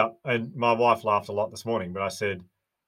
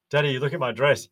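put-on higher and louder, a child showing off her dress; a daughter calling her dad to admire her dress, higher and louder; excited little girl; 5 semitones higher, 6 dB louder than usual. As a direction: chirp it like a proud toddler.

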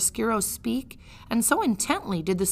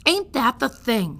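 louder, higher shout of delight; 4 semitones higher, 6 dB louder than usual. Acted. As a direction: shout it out in glee. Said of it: "shouted Midge".

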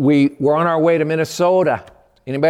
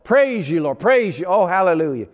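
joyful praise; 3 semitones higher than usual. Retold or imitated. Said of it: "But this time it was".

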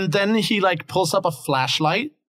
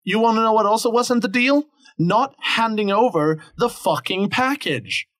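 boss snapping back; 6 semitones higher than usual. Acted. GM boss scolds players.

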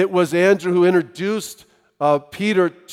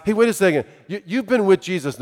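lightly voiced young woman's challenge; slightly raised, questioning accusation; accusing young woman; 3 semitones higher, faster than usual. Young woman challenges Peter about following Jesus, lightly voiced accusation. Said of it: "this young woman who asks".

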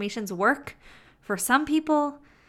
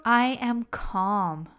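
slower, even; slow calm read; slower than usual. Shown as a demonstration. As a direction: say it gently. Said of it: "Let's try another example".

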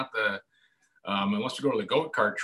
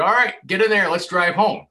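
higher, louder upbeat command; cheerful dad order; 8 semitones higher, 8 dB louder than usual. Retold or imitated. Dad telling his daughter to drive home, loud and upbeat. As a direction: hand over the keys with gusto.

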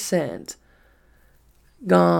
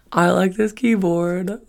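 slow, higher, amused take on a friend's line; imitating Nick again; 4 semitones higher than usual. Vlogger repeating friend's keyboard line, slow teasing impression. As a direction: drag it out teasingly, a light mimic. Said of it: "He's like".

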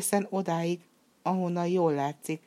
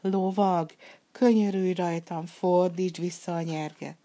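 desperate cry; 2 semitones higher, 3 dB louder than usual. Acted. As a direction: beg with the last of his strength. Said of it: "teli torokból kiabált".

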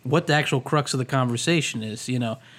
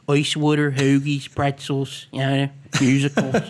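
local Philly radio-caller accent. Shown as a demonstration. Host mimicking callers to W I P, Philly accent. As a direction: list them in Hoagie Mouth, a Philly accent. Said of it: "if you listen to W I P".

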